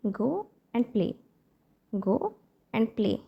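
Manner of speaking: very slow, spaced words; slow model phrase. Shown as a demonstration. Teacher to parents, modelling a phrase very slowly. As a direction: say it slowly for learners to copy. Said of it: "तो आपको बोलना है".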